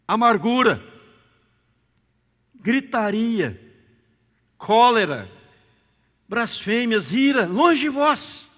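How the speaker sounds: loud, high preaching read of the verse; fiery sermon reading; preaching scripture. Acted. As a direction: proclaim each vice to the congregation.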